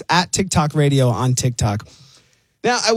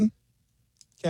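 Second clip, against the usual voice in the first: out of breath; 6 semitones higher, 7 dB quieter than usual. Real, not acted. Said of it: "I'm a little bit out of breath".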